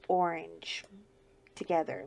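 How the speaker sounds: hushed whisper on orange together. Acted. Confiding her favourite cocoa pairing to viewers, whispered. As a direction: breathe it like a delicious secret.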